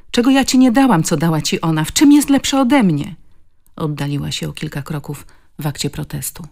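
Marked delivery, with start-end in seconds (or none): 0.1-3.1 high, loud accusing questions; jealous, pleading outburst; anguished reproach. A narrator's reading. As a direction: hurl the questions at him, hurt. Jealous confrontation of husband.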